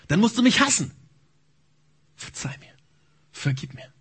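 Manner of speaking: desperate prayer, rising then whispered; stammered prayer. Acted. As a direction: plead with God, breaking down. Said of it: "Gebete zu stammeln".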